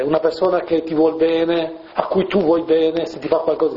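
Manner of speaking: ordinary talk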